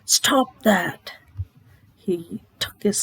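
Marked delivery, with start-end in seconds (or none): 0.0-1.1 loud, sharp cry of protest; a loud read-aloud scream of protest. A narrator's reading. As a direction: yell it out to stop the axes. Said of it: "let out a scream".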